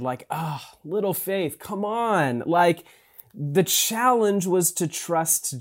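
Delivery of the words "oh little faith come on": put-on like a dad to a kid. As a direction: tease it tenderly, like a father to his child. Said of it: "like a dad to a kid".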